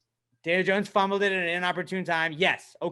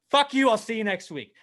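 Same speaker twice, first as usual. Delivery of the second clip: loud, high curse, then easing off; mock-disgusted kiss-off; Larry David; 6 semitones higher, 4 dB louder than usual. Fan signing off on his team, mock disgust. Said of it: "I'm Larry David at the end".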